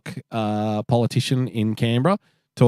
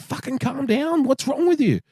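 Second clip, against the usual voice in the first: exasperated boss. Retold or imitated. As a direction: drag it out like you've lost patience. Teller quotes himself, exasperated.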